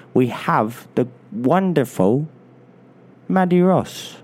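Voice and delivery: put-on light London accent like Michael Caine; a hint of a Cockney film star. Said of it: "I sound a little bit like Michael Caine".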